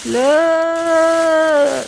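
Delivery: loud, high excited call; excited look. Real, not acted. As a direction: show it off with delight. Showing the new glass.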